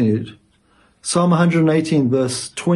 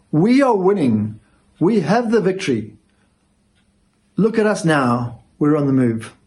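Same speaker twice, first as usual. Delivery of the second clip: mock victory cheer; 2 semitones higher than usual. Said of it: "Israel's way of saying".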